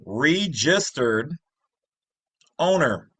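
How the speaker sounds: registered drawn out slowly with a rising tune, then owner; stress on registered. Shown as a demonstration. Teacher stressing the term registered owner for viewers, slow and deliberate. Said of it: "Once again".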